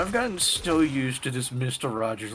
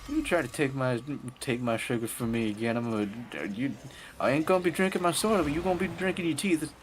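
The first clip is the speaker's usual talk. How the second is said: higher, fast Southern granny threat; Southern grandma accent; 6 semitones higher than usual. Retold or imitated. Southern grandma threatening over her sugar, high accent. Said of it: "she's Southern in my explanation".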